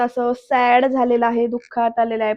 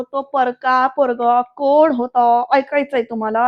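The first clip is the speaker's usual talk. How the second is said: gritted teeth. Retold or imitated. Varad readies his big reveal, through gritted teeth. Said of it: "असे दात तोट खाऊन बोलतोय".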